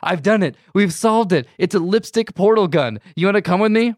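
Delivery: mocking the book's kids who beg then refuse; mock pleading kids. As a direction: ham up the kids' desperate pleas. Mocking kids begging again.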